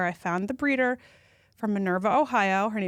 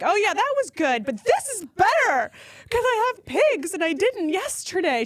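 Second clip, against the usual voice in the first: still tearful; 11 semitones higher, 4 dB louder than usual. Retold or imitated. Still crying over pigs.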